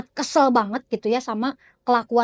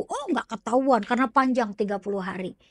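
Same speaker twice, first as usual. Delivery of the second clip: dismissive reassurance. Acted. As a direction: play the healer brushing off the worry. Healer reassures the nervous client.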